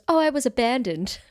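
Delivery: breezy offhand confession; casually chill. Retold or imitated. Podcast host mimics the actress's breezy abandoned line. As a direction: toss it off like trivia. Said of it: "delivering it like you would say".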